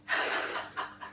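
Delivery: short, breath-only laugh; soft chuckle. Real, not acted. Guest answering what a true friend is, soft chuckle. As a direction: laugh quietly under the breath. Amused after answering about secrets.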